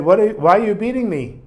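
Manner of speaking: indignant protest. Retold or imitated. Shmuel protesting the beating.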